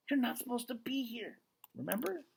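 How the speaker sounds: reminding. Acted. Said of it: "she reminds him".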